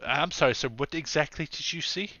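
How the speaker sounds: a hint of a polite officer; questioning policeman. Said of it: "the policeman is gonna enter the room".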